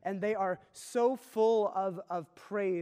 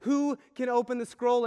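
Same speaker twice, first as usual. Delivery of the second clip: mild wailing cry; 5 semitones higher, 8 dB louder than usual. Retold or imitated. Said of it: "He starts crying and wailing".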